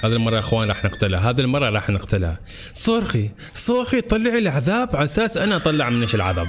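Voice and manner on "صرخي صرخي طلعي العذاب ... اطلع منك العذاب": taunting boss. Real, not acted.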